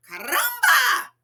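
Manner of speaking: high, loud startled shout; an old man's shocked outburst; exclaiming. A narrator's reading. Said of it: "exclaimed the carpenter".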